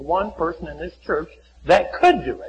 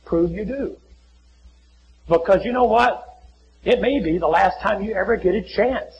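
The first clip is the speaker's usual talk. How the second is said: ordinary talk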